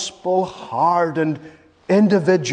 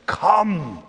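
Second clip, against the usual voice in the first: inviting call; 4 semitones lower than usual. Retold or imitated. Preacher voicing the Savior to those he scolded, tender invitation. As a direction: plead gently, ending hushed and low.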